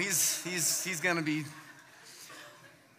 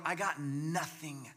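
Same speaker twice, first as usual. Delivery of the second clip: empty, defeated; 2 semitones lower, 4 dB quieter, slower than usual. Acted. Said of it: "that feeling of just going".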